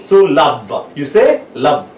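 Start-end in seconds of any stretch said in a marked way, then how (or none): 0.2-0.9 "love" said to show its V, upper teeth on lower lip; demonstrated V sound. Shown as a demonstration. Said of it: "So this is the V sound". 1.5-1.9 "love" as a teacher's example of V; demonstrated V sound. Shown as a demonstration. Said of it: "So this is the V sound".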